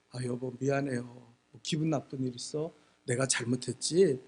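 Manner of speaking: low, soft, lightly acted apology; mild apologetic wife. Wife calming her cursing husband, mild soft apology. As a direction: soothe the husband quietly.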